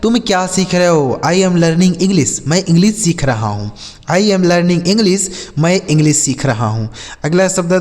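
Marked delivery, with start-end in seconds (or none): 1.2-2.3 each word said very slowly and clearly; slow clear English. Shown as a demonstration. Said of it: "जैसे हम बोल सकते हैं". 4.1-5.2 each word said very slowly and clearly; slow clear English. Shown as a demonstration. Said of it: "जैसे हम बोल सकते हैं".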